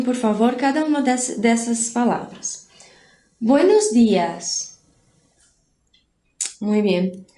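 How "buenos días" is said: drawn-out teacher's demonstration of "Buenos días"; slow repeat-after-me model. Shown as a demonstration. Spanish teacher asks class to repeat after her, slow model. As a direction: say "Buenos días" slowly for learners to copy. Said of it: "Repitam depois de mim".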